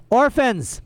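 high scratchy call for the orphans; scratchy shout. A narrator's reading. Olaf calling the orphans as he flings the door open, scratchy shout. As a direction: bellow it out in a rasp. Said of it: "called out in a scratchy voice".

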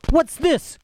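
high-pitched startled outburst; bewildered cry. A narrator's reading. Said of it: "cried the flyer, bewildered".

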